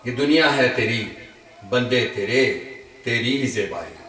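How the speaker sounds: measured Urdu verse with pauses between phrases; ghazal recitation. Acted. Poet shares his ghazal with friends at a gathering, measured recitation. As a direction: recite each line to the room, lifting the repeats.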